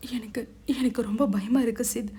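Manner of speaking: a touch of frightened weeping, stammering; mildly tearful, clinging fear; scared crying. Acted. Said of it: "அழுதாள்". (பயந்த லேசான அழுகை)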